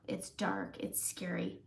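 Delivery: hushed, half-joking spooky whisper; mock spooky. Host jokes the dark shade is scary, in a mock spooky whisper.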